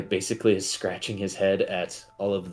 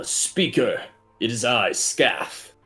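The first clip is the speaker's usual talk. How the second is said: dopey cartoon bellow; 3 semitones higher, 4 dB louder, slower than usual. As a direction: boom it like a dopey giant. GM voices Scath at the door.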